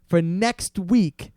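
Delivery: slow, emphatic retold salesman; lightly acted deal closer, drawn out; pushy closer. Salesman demanding money from customer, slow and pushy.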